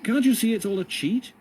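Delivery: high, loud desperate plea; cried out. A narrator's reading. John cries out to the prisoners while dragged away, high and loud. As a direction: call out to wake them up. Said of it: "cried out to the others".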